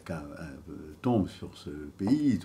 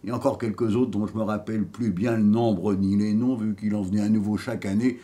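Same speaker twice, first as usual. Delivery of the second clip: proud, cheeky rogue, louder and higher than chat; dead vagabond telling his life; 4 semitones higher, 7 dB louder than usual. Acted. Dead man boasting of his life, theatrical and defiant. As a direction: declaim like a storyteller, rising on each boast. Acts the dead man's monologue.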